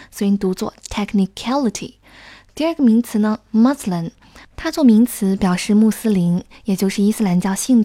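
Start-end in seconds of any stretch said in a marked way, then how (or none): 0.9-2.0 technicality with the stress on the syllable cat, clearly marked; teacher demo: punch cat in technicality. Shown as a demonstration. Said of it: "重音是在cat前面". (重读cat音节的technicality示范)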